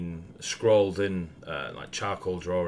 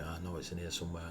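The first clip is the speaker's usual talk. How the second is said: muttering quietly and quickly to herself; under her breath; 10 dB quieter, faster than usual. Acted. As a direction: talk under your breath, fast. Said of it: "talking, like, under her breath".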